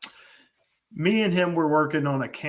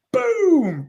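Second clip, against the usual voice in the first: sudden high, loud imitation of a blast; storyteller's drawn-out, booming bang; explosive boom; 6 dB louder than usual. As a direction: boom it out like a shotgun going off. Imitating the valve blowing off.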